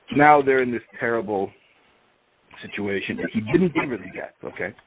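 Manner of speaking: plain reading voice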